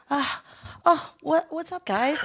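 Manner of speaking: fake casual surprise. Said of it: "My acting Oscar side came out".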